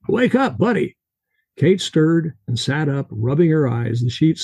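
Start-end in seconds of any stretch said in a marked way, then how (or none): 0.1-1.0 put-on high-pitched Russian-accented Jack, rolling it out; heavy Russian accent. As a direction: do Jack's thick Russian accent. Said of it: "His Russian accent heavy".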